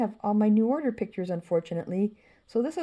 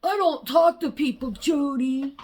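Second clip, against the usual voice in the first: higher and louder snooty brush-off; the friend coldly dismissing Jody; 6 semitones higher, 3 dB louder than usual. Retold or imitated. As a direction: shut Jody out haughtily. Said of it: "it's like".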